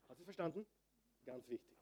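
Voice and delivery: barely audible, intimate check; hushed. Real, not acted. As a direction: drop right down to impress it on the listeners. Hushed aside to the congregation. (ganz leise, eindringlich)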